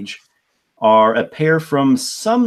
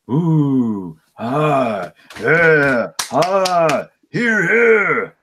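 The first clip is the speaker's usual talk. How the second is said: cheering; 5 semitones higher, 4 dB louder, much slower than usual. Acted. Applause after the ballad.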